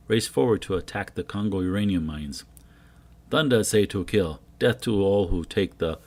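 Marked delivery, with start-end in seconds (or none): 3.3-6.0 loud, booming war order; rally the warriors to kill; commanding shout. Acted. False god orders attack.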